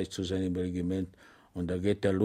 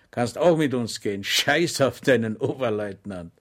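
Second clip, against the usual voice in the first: deserters inviting; 4 dB louder than usual. Acted. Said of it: "forderten sie Schweig auf".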